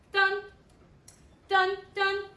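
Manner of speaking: each "dun" punched loud and high; vocalized accents on "dun", spaced out; accented notes. Shown as a demonstration. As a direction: hit every "dun" hard, like an accent. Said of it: "notes that have the accents".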